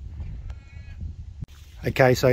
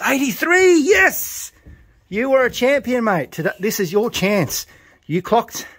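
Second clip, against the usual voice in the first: far higher, loud triumphant yell; ecstatic shout; 11 semitones higher, 4 dB louder, slower than usual. Real, not acted. Fancier shouting as bird eighty-three clocks, ecstatic. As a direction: explode with joy at the number. Reads winning bird number.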